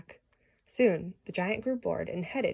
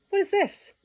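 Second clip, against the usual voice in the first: giant's outcry; 12 semitones higher, 4 dB louder than usual. A narrator's reading. Giant holds up Jack.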